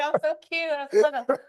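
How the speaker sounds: high nasal mocking whine. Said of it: "the nasal voice".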